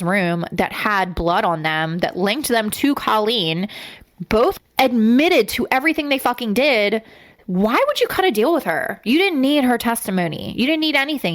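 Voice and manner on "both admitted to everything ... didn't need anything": raised, higher, heated outrage; angry rant. Real, not acted. Host ranting to cohost about the plea deal, heated and raised. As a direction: push it up in disbelief and anger.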